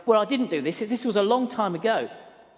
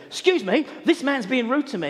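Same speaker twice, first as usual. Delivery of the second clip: louder, higher indignant complaint; worked up; 4 semitones higher, 4 dB louder than usual. Retold or imitated. Staff member complaining to community officers, worked up. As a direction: imitate an aggrieved man calling for backup. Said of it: "he was really worked up".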